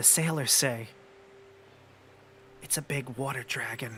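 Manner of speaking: secretive, hushed whisper. Game master voicing a kid whispering to the players, whispering. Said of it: "and he whispers to you all".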